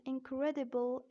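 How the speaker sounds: British "Incredible" with a clear D; British-accent demo of Incredible. Shown as a demonstration. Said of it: "in British accent".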